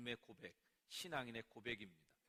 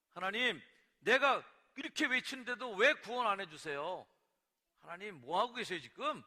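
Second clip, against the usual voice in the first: loud, raised-pitch indignant pleading; angry complaint; 6 semitones higher, 12 dB louder than usual. Acted. Prophet asking God why no rescue comes, angry. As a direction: cry out at God, demanding an answer. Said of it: "막 화를 내요".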